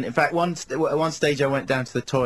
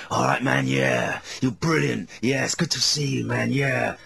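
wasted partygoer. Retold or imitated. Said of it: "like, going".

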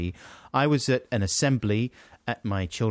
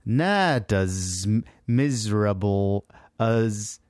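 New York accent; much slower than usual. Shown as a demonstration. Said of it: "make you sound like you're from New York".

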